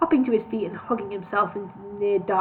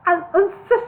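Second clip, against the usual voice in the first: higher, louder warning; 8 semitones higher, 5 dB louder than usual. A narrator's reading. Bingo warns Solomon to answer. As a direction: warn him sharply. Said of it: "in a warning tone".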